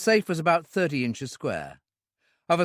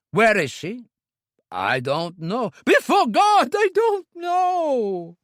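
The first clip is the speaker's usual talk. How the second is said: much higher, louder, slow terrified denial; near scream; 11 semitones higher, 7 dB louder, slower than usual. A narrator's reading. Owner swears ignorance at gunpoint, near scream. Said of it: "almost in a scream".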